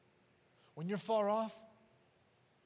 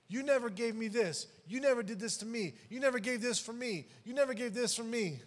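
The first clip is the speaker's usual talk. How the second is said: resentful brother; 5 semitones higher, 4 dB louder than usual. Retold or imitated. Preacher voices resentful older brother.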